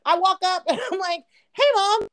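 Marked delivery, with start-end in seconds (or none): 1.5-2.1 high-pitched, sheepish hello; awkward sing-out to mother-in-law; nervous greeting. Retold or imitated. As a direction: greet her too sweetly, dreading it.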